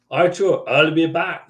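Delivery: imitated Austrian action-star catchphrase; mock Austrian tough guy; Arnold Schwarzenegger. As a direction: do a quick movie-hero impression with an Austrian accent. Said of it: "Yeah, Arnold Schwarzenegger".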